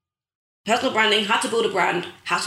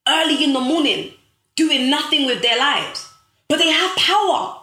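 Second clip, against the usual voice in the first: building passion; 3 semitones higher than usual. Real, not acted. Rallying her viewers about missing leaders, building to a passionate near-shout. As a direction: preach it, climbing in force with every line.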